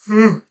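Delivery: a real tired yawn that escapes mid-lesson. Real, not acted. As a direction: let a sleepy yawn slip out. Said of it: "That's why I'm yawning".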